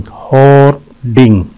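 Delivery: "होर्डिंग" slowly, split in two; syllable breakdown. Shown as a demonstration. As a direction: pause between the syllables of "होर्डिंग". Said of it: "इसके दो syllable हैं". ("होर्डिंग" दो हिस्सों में धीरे)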